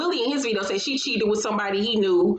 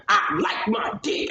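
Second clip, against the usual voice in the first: whispered; slower than usual. Retold or imitated. Repeat quote whispered.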